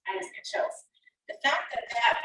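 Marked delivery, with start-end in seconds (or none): 0.1-0.8 a real hushed aside, moved; awed whisper. Real, not acted. Pastor admitting the verse moves her, whispered. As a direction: whisper it as if the verse still gives you chills.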